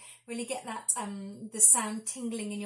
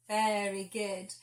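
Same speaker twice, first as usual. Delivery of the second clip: long sigh; 3 semitones lower, slower than usual. Shown as a demonstration. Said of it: "big yawn".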